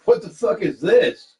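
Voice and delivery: mock stunned inner thought; baffled disbelief. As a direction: spell out the total confusion word by word. His inner reaction to hug.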